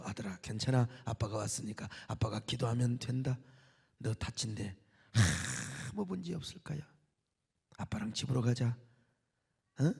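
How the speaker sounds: soft, low and tender, sinking to a whisper; hushed fatherly reassurance; comforting father. Retold or imitated. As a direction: soothe a frightened son. Father comforting his injured son.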